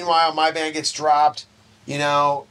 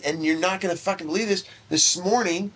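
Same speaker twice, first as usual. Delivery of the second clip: put-on excited girlfriend; 6 semitones higher than usual. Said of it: "She's like".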